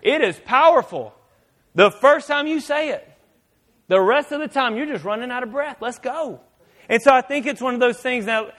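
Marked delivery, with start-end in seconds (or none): 0.0-6.4 impatient God. Retold or imitated. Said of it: "And He's saying".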